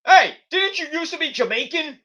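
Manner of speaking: high, mocking call-out; Triple H. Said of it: "Triple H is like".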